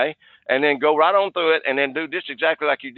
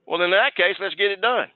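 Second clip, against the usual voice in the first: pleased, higher voice of a customer saying yes; relieved customer; 6 semitones higher than usual. Retold or imitated. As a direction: play the customer won over by the payment plan.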